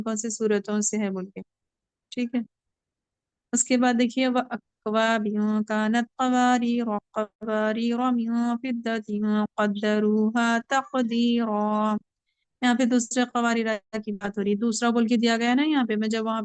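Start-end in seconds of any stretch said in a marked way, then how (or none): 4.3-12.0 slow, drawn-out tajweed recitation; Quran recitation. Shown as a demonstration. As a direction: chant the verse slowly with care. Teacher recites Quran verse. (धीमी तजवीद वाली तिलावत)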